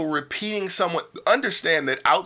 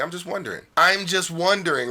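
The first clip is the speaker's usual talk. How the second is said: light, casual tag; 3 semitones higher than usual. Shown as a demonstration. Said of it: "it stops it from being so heavy".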